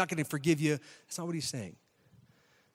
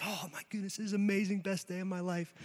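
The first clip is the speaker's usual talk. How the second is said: high, hushed mock excitement; excited; 4 semitones higher, 4 dB quieter than usual. Forgiven servant walking out, softly gushing with excitement. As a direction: gush softly in a raised pitch. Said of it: "he's excited and he's like".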